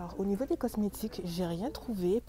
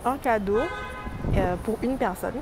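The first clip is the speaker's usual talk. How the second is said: loud; 10 dB louder than usual. Real, not acted. Loud store talk.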